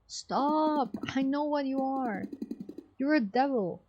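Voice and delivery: high, ringing accusation; accusing zealot. Acted. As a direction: denounce him as a devil.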